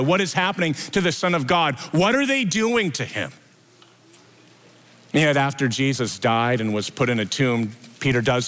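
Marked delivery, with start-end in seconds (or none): 0.0-3.3 a touch of acted despair; mild imagined anguish; anguished question. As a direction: pitch climbing higher into anguish. Peter at the cross.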